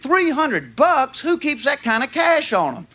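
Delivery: acted indignant disbelief; retold anger. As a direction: draw out the first words in mock outrage. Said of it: "I got mad".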